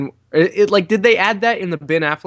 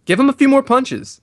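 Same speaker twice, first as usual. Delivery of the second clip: cheering; 11 semitones higher, 4 dB louder than usual. Real, not acted. Cheering on the fight.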